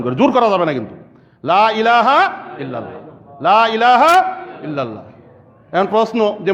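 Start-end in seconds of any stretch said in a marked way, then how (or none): 1.4-5.0 gentle prompting. Shown as a demonstration. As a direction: coax it gently into the dying man's ear. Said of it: "আস্তে আস্তে তার কানে". (আস্তে আস্তে কোমল স্বরে)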